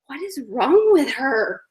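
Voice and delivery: mock bewilderment. Imitating puzzled onlookers on Facebook.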